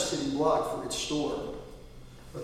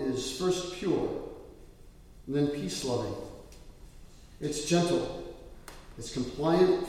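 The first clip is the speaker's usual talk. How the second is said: scripture reading. Acted. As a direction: read the verses solemnly to the church. Pastor reads scripture aloud.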